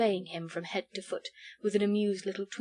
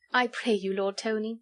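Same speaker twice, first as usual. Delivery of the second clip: gentle sweet voice. Acted. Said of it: "gentle, sweet, musical voice".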